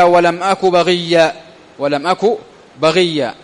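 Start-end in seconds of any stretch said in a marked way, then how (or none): 0.0-1.3 Quranic verse recited. Shown as a demonstration. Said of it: "كقوله تعالى".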